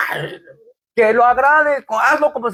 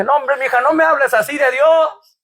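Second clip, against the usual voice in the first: moved protest; 5 semitones higher than usual. Retold or imitated. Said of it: "me dije".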